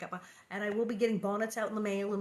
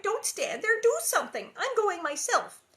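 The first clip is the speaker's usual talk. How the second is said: higher, louder demand; crying out; 10 semitones higher, 6 dB louder than usual. A narrator's reading. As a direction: push her sister to act. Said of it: "Carrie cried".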